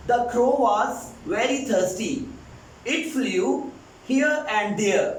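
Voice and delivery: "here and there" said very slowly with no r; slow non-rhotic demo. Shown as a demonstration. Teacher reads a slow example to students. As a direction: stretch "here and there" and drop the r. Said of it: "आप यहाँ पे र का sound here and there नहीं".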